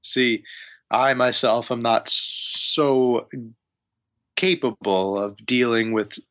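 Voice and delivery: lightly voiced wizard with deliberate pauses; wizard asking a favor. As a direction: ease into a delicate request as a wizard. GM voices wizard Hamun Kost.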